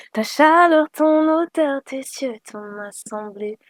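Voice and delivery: running out of breath while singing. Real, not acted. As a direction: voice fading, out of breath. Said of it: "J'ai plus de souffle".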